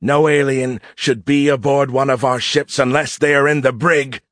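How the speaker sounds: put-on high, forceful voice of a cocky young usurper; arrogant mutinous cadet. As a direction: declare the takeover with high-pitched bluster. Mutinous cadet taking command.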